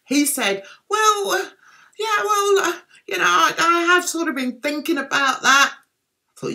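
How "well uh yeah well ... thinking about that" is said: high, hesitant mock reply; reluctant agreement. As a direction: hedge awkwardly in a raised pitch. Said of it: "pulling a face that looked like".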